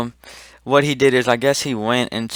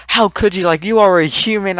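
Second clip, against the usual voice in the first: high-pitched mock reproach; retold indignant disbelief, voice pitched up; imitated appalled teacher; 8 semitones higher, 4 dB louder than usual. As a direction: scold as if deeply offended.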